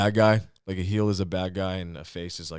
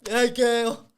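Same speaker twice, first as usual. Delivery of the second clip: high goofy movie-character call; Doofy; 4 dB louder than usual. Acted. Comic gets his Scary Movie impression out, high and goofy. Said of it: "I could do Doofy".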